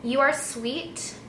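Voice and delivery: usual speaking voice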